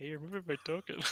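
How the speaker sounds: very hushed, quiet mutter under the breath. Retelling noticing the game master moving a token: retelling muttering under breath. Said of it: "I said it so under my breath".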